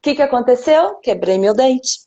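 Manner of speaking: talking with an anesthetized mouth; numb mouth. Real, not acted. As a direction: speak as if your lips are numb. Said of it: "Tô com a boca mo-, anestesiada".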